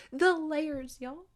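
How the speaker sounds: choked-up, high-pitched cry with a little laugh; overwhelmed to tears, voice climbing high. Real, not acted. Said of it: "Like, I'm crying".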